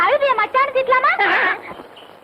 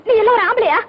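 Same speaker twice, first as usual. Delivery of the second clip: angry scolding; 2 semitones higher, 4 dB louder than usual. Acted. Wife scolds husband after robbery.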